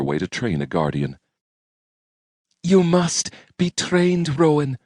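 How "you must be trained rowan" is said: through clenched teeth. Acted. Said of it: "Her words strained against her clenched teeth".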